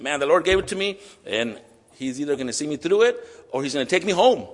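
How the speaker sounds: a believer calmly handing it over to God; confident believer. Pretend. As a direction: say it like you've made peace with it. Imagined faithful sufferer's words.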